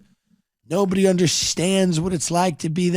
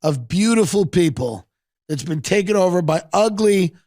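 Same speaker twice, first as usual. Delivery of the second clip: Rick's speech; 5 semitones higher than usual. Retold or imitated. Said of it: "He goes".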